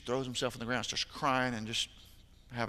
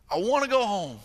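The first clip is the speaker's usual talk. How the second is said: put-on higher, pleading child's cry; mock tearful plea, higher; imitating a sobbing boy; 8 semitones higher, 8 dB louder than usual. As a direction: plead it through tears. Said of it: "with how hard he's crying".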